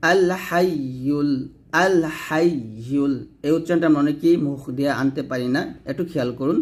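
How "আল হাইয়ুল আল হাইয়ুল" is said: হাইয়ুল with tongue-middle pressed to palate, "hay-yul"; doubled ya. Shown as a demonstration. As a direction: lean on the "yy" in হাইয়ুল. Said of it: "জিহ্বার মধ্যখানে উপর তালুর সঙ্গে". (হাইয়ুল-এর ইয়া চেপে ধরে উচ্চারণ)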